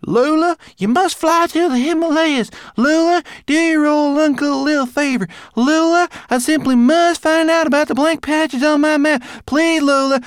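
imitating pleading uncle. Lola imitates Gilbert.

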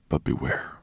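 lightly hushed, drowsy warning; low, fading old dragon voice; very soft. A narrator's reading. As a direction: murmur a warning as sleep takes over. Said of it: "his voice so soft that".

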